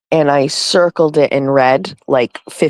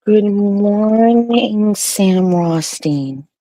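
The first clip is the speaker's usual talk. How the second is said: slow stretched high greeting voice; sing-song greeting; 6 semitones higher, much slower than usual. Pretend. Greeting the dog, slow sing-song voice. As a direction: croon it out slowly.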